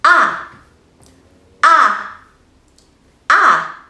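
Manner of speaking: open-mouthed short "ah" three times; short ah sound. Shown as a demonstration. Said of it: "Let's try it together".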